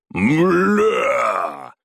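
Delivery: burning man's curse shout; yelling curse. A narrator's reading. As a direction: yell it while on fire. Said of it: "заорал загоревшийся Батуми".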